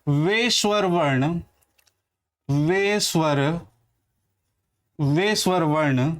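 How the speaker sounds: slow, spaced dictation pace. Shown as a demonstration. Teacher dictating the definition slowly while writing. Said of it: "मैं पहले परिभाषा लिख दे रहा हूँ".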